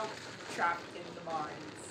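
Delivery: slow, soft unvoiced whisper. Player trapped in the mines whispers to himself. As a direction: hush as if trapped in the dark. In a dark mine.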